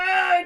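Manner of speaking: loud, high mock cry; hammed-up yell; mock surfacing gasp. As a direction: burst out "ah" as if surfacing. Acting Paul surfacing.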